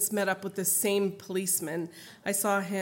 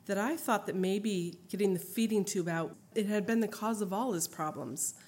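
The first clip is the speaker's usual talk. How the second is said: measured, even reading of a written account; memoir reading. Acted. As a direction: read it out like a book. Reads her written memoir aloud.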